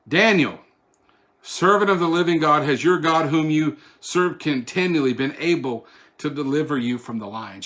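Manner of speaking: king cries out to Daniel in loud lament; calling into the den with grief; lamenting cry. Acted. King calling down to Daniel, loud lamenting cry. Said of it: "He cried out with a lamenting voice".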